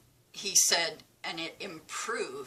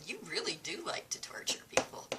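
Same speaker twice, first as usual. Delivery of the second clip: whispering; 6 dB quieter, faster than usual. Retold or imitated. Teasing the doctor, whispered.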